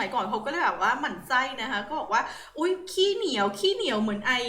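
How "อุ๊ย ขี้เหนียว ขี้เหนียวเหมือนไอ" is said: lightly mocking, pitched higher at the start; mild sarcasm. People of old needling the stingy minister, mild mock sarcasm. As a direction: imitate people gently sneering at a miser. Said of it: "ประชด ประชดเบาๆนะคะ".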